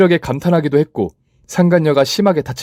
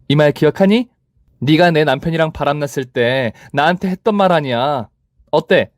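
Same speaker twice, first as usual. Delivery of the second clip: higher, contemptuous mocking; scornful taunt; 5 semitones higher than usual. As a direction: throw her old words back. Final taunt of rival. (높게 경멸하며 조롱하는 말투)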